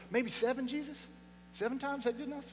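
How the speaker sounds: mock eager Peter. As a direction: play Peter angling for a gold star. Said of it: "He's like".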